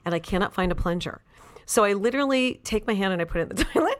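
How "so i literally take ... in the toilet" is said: words breaking into laughter, higher; laughing while telling. Real, not acted. Telling a host about unclogging a toilet by hand, laughing. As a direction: laugh through the embarrassing confession.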